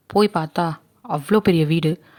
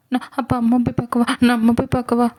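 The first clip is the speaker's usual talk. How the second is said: put-on 1 timid young girl; 5 semitones higher than usual. Girl asks to see mother.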